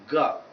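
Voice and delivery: put-on "girl" with an open central vowel, no R; correct vowel eleven. Shown as a demonstration. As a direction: say "girl" like "gahl".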